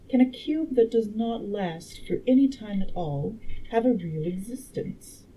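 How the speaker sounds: lightly voiced, emphatic woman lecturer; a hint of a learned lady, punching key words; time traveler as a girl. Time traveler instructing the dinner guests, lightly voiced clever girl. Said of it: "make the time traveler a girl".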